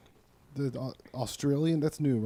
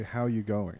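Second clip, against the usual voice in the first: Australian accent; 2 semitones lower, slower than usual. Shown as a demonstration. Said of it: "They say".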